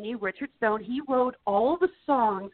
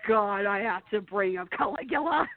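lightly acted parental dread; mock dismay of a cornered parent; half-voiced groaning parent, mildly panicked; parents freaking out; 3 semitones lower, slower than usual. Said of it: "are just freaking out".

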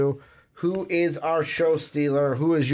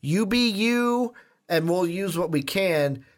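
quoting the producers; 4 semitones higher than usual. Retold or imitated. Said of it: "John Mulaney was like".

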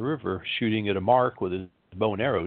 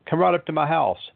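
coaxing stranger; 7 semitones higher, 4 dB louder than usual. Acted. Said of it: "said the stranger".

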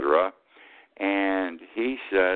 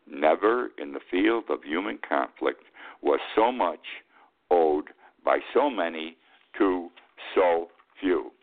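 Churchill quote again; 2 semitones lower than usual. Retold or imitated.

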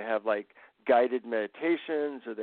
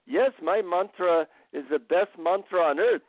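put-on higher-pitched Indian-accented guru; 4 semitones higher than usual. Guru boasts to his visitor about his mantra, Indian accent. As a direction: put on an Indian accent, a little sing-song. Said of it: "he said in his Indian accent".

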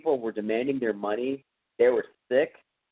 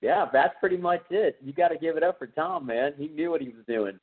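imitated dad; 5 semitones higher than usual. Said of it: "my dad is pretty much going".

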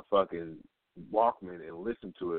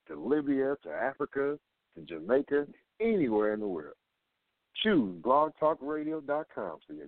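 upbeat ad read, pitched up; radio promo voice; 3 semitones higher than usual. Pretend. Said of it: "my radio voice be on point".

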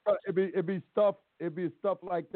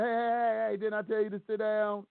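high-pitched mock holler; judge hollering; 6 semitones higher than usual. Judge hollering at him to sit down. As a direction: retell the judge's yell, pitched up. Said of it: "he was hollering at me".

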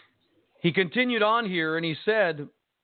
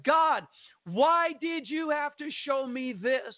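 retold anguished cry; 10 semitones higher, slower than usual. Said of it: "I'm bawling my eyes out".

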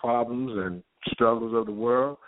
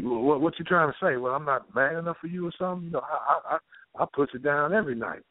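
defensive man; 5 semitones higher than usual. Retold or imitated. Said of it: "And the man".

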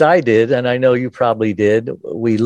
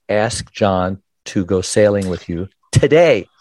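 inner voice. Retold or imitated. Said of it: "I heard a voice in my head".

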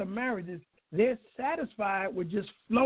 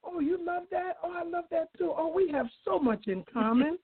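love bombing; 7 semitones higher than usual. Retold or imitated. New couple gushing over similarities.

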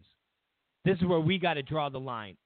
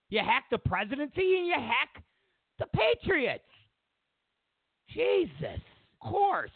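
exasperated rant; 8 semitones higher than usual. Acted. Exasperated rant, high pitch.

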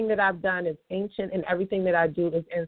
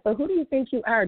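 raised, higher mock outrage; indignant man; 6 semitones higher, 3 dB louder, faster than usual. Customer pushing back at the cashier, mock indignant. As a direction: play the offended customer. Retold customer confronting her.

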